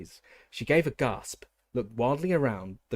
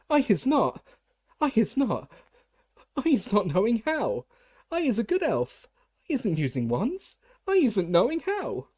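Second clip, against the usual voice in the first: very high, loud, tearful elf squeal; squealing house-elf; 12 semitones higher, 7 dB louder than usual. A narrator's reading. Frightened house-elf squeals at the official, very high and loud. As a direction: squeal your innocence in terror. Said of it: "she squealed".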